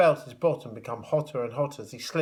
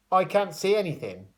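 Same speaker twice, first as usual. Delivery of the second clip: higher, louder cry; 6 semitones higher, 3 dB louder than usual. A narrator's reading. Foam-blinded porter crying out to the others. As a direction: call out blindly. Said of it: "cried the porter".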